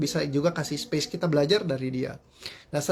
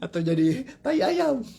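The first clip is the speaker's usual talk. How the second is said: high, slow, hammed-up curse; joking curse, still laughing; mock curse; 9 semitones higher than usual. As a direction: keep the playful storybook curse going.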